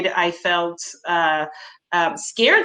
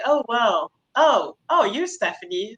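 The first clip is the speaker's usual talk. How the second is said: caught off guard; 3 semitones higher than usual. Retold or imitated. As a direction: fake the boss realizing who she is. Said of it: "they're like".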